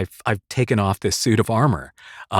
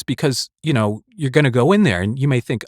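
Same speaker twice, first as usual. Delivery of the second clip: normal talking voice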